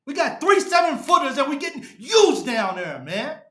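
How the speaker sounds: frustrated yelling. Real, not acted. Fan ranting about weak bigs.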